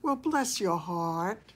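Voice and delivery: slow Southern drawl try-out; Southern accent attempt. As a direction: try a sweet Southern bless your heart. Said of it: "I should practice being a Southern girl".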